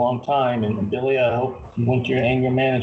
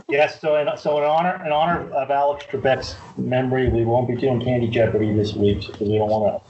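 normal talking voice

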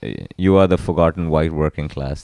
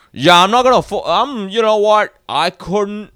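high mocking voice; 5 dB louder than usual. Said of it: "and he's like".

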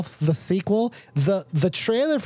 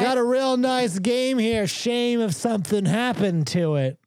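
lightly voiced shakedown racketeer; mock mobster threat; 5 semitones higher than usual. Co-host riffs on threatening game review, lightly mock mobster. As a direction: make a hint of a veiled mob threat.

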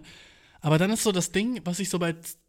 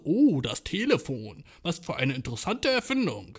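mock old-timey marvel. Mock 1705 person marvelling.

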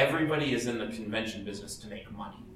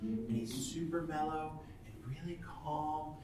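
Gilbert Godfrey's real voice; 4 semitones higher, 11 dB quieter than usual. Retold or imitated. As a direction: imitate a shy, quiet little old man. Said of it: "He talks like this".

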